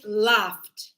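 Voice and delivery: laughed slowly ending in an ft; slow, final ft. Shown as a demonstration. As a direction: stretch laughed and end on ft. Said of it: "here the same".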